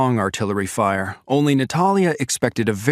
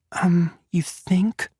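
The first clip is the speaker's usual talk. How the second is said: sarcastic; 7 semitones higher, slower than usual. A narrator's reading. Sarcastic unsaid reply.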